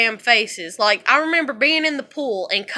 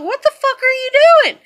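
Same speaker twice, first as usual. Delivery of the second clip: high, loud indignant yell; angry outburst; 12 semitones higher, 7 dB louder than usual. Retold or imitated. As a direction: demand it like you just surfaced furious. Retelling angry outburst at husband.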